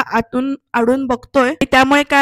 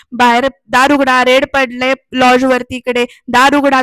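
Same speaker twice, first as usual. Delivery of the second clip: louder, half-hearted police yell; mock police shout; 4 dB louder than usual. Police raiding a lodge order the door opened, mock shout. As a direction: imitate police calling through a door, raised voice. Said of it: "police ओरडून ओरडून बोलत असतात".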